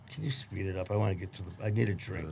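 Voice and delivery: quiet, cocky brush-off; uncaring, impatient aside. Retold or imitated. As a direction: softly act out not caring. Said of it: "Didn't care".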